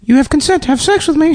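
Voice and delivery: mock parrot phrase.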